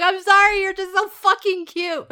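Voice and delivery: high, loud sorry through laughter; laughing apology. Retold or imitated. Mother apologizing to daughter while laughing. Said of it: "And I'm like".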